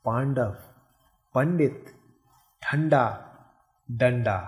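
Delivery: "पंडित" with a clear n before the ड; each word isolated, nasal sound heard before ड; careful pronunciation demo. Shown as a demonstration. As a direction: model the nasal in "ठंडा" and "डंडा". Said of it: "इसका उच्चारण कैसे करेंगे".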